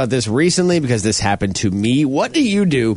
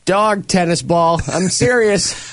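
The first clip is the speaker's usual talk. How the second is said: mock threat; 4 semitones higher than usual. Threatening intruder in the dark.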